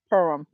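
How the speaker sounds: "Perham" as PER-um, silent h, weak second syllable; run together. Shown as a demonstration. Streamer settling on a viewer's surname, "Perham" run together as PER-um. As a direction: say "Perham" as one word, PER-um. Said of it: "I would say Perham".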